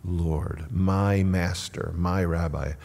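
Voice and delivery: quiet, loving reverence; endearing. Shown as a demonstration. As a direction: savour each title softly and slowly. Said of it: "it's an endearing term".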